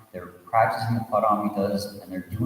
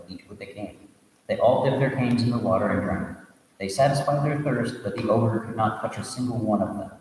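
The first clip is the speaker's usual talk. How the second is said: steady storytelling read, voicing the characters lightly; story narration. A narrator's reading. Teacher reading a Buddhist tale to students, storytelling voice. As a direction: read the tale aloud to the class.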